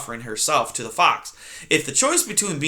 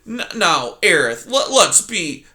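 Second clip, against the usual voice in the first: nervous fox; 4 semitones higher than usual. Acted.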